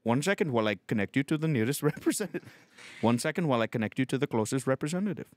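fast automated transfer message; robot phone agent. Acted. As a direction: rattle it off like a phone menu. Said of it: "A robot".

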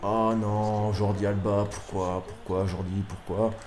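plainte basse et retenue; lamentation dépitée. Real, not acted. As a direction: supplier le joueur tout bas, abattu. Se lamente sur une erreur. (dépit à voix basse)

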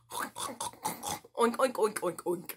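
soft fading oinks like a little pig. Shown as a demonstration. Teacher voicing the little pig for children. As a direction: oink gently, trailing off. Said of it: "This little pig says".

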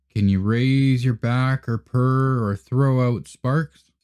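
a hint of a cocky alley cat; streetwise alley cat. Tomcat speaks.

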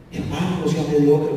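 low, earnest plea; pleading. Retold or imitated. Boss who cared begging his employee, low and pleading. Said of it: "con un tono de súplica".

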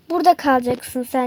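a low, menacing villain catching his victim. Acted. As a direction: growl it like a gloating villain. Villain locks captive.

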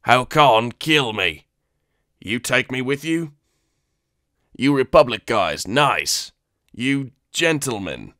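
loud, slow broken alien pleading; fawning alien begging; pleading Weequay. Acted.

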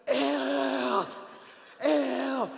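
high, loud hollered curse; imitated yell. Son yelling from the front porch, loud imitated holler. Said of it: "on the front porch and yells".

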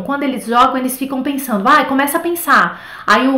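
normal talking voice

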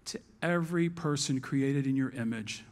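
low, hushed prayer; closing prayer. Real, not acted. Pastor closing a prayer to the Holy Spirit, low and reverent.

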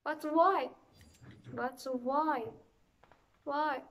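loud, exasperated cry of why; frustrated shout. Real, not acted. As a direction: yell it out in frustration. Gamer frustrated at dying.

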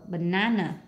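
"banana" stressed on the middle NA, ba-NA-na; stress on second syllable. Shown as a demonstration. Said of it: "nhấn âm hai".

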